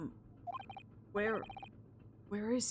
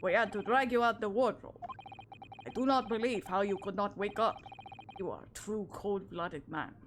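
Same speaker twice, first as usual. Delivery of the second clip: Russian officer voice. Acted. Officer to stowaway he dragged from the wardrobe, mock Russian accent.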